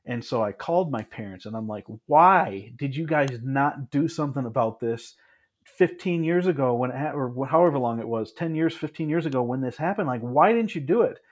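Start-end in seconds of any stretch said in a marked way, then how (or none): 2.0-11.2 retold angry demand. Angry retort to parents retold.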